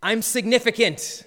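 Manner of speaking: high, loud cartoon-boy outcry; half-shouted mock scream, high-pitched. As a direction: cry it out at the night sky, mock-defiant. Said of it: "and he screams".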